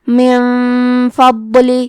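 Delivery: من فضل with the ن hidden in a nasal hum before ف; ikhfa with ghunna. Shown as a demonstration. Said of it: "یہ حکم کو غنہ کے ساتھ ادا کریں گے".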